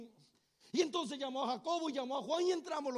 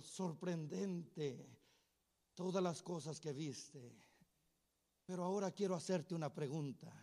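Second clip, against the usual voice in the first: hushed awe; 7 semitones lower, 7 dB quieter than usual. Acted. Paul marvels at Peter's miracles, low and hushed. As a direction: murmur it as if stunned by wonders. Paul speaks softly, awed.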